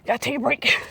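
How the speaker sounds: winded after heavy lifting, puffing between phrases; out of breath. Real, not acted. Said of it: "got me out of breath".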